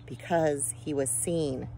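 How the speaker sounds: a solemn slow warning; slow, weighty. A narrator's reading. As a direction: let it sink in slowly. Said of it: "stressing the word".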